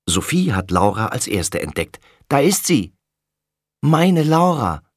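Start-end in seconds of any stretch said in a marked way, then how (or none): 2.3-2.9 excited call. Acted. Sophie spots Laura first. 3.8-4.8 high, loud, slow cry of relief; mother calling out. Acted. Mother finally sees her lost daughter and calls out. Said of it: "ruft Mama".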